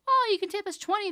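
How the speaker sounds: mock singer voice. Singer asking for tip.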